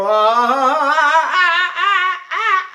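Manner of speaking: strained, squeezed rising ah; choked high notes. Shown as a demonstration. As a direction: sing high notes constricted. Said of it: "I'm choking to death".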